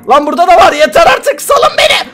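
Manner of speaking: half-laughing, half-crying protest; exasperated shout. Real, not acted. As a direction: yell in playful panic. Cornered by enemies, crying out.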